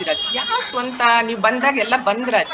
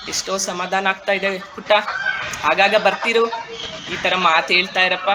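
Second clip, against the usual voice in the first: soothed grandmother; 4 semitones lower than usual. Acted. Grandmother comforted, thanks the girl.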